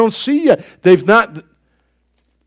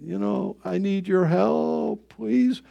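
soft, slow, pleading prayer to the Lord; a hushed, humbled plea; 5 dB quieter, slower than usual. Retold or imitated. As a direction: quietly beg for help, slowing down. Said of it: "I cry".

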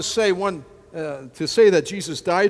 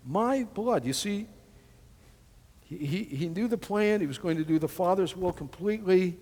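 normal talking voice

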